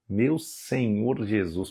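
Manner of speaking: breathless with wonder; stunned by the verse; awed hush. Real, not acted. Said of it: "Dá vontade de chorar".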